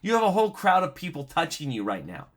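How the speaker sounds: high, quick, disbelieving protest; incredulous disciples. Retold or imitated. Disciples protesting to Jesus amid the pressing crowd, incredulous. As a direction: scoff as if he asked something absurd. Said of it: "they're like".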